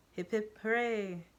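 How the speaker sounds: sarcastic celebration; lightly mocking hooray. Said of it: "the speaker mocks".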